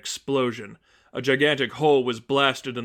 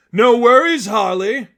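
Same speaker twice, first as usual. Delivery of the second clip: much higher, loud manic cheer; Joker voice; 10 semitones higher, 10 dB louder than usual. Acted. The Joker cheers Harley's arrival, manic and loud. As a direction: greet her like a gleeful madman.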